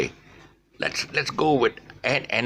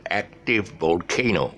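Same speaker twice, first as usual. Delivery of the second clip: "active volcano" slowed, syllable by syllable; slow, deliberate teacher's "active volcano"; slow demonstration. Shown as a demonstration. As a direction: spell out "active volcano" slowly, vol-CAY-no. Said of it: "there's a shift in the syllable".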